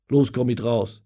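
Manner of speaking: stern. Acted. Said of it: "sagt Richard streng".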